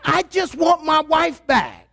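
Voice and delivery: hammed-up wailing complaint; pleading husband. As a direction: beg like a husband who misses his wife. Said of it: "And they're like".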